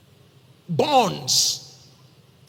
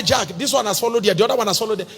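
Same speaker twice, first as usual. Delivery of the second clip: excited shout; 3 semitones higher, 5 dB louder, faster than usual. Retold or imitated. Retold chaos after being slapped.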